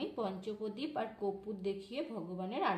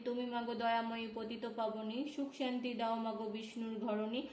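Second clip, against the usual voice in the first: soft, quick sing-song verse; devotional recitation; 4 dB quieter than usual. Acted. Devotee inviting Lakshmi to sit, soft sing-song verse. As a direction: softly call the goddess in.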